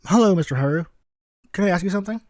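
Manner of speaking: put-on high eager boy's voice; young Izuku, eager. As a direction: pitch up as an earnest little boy.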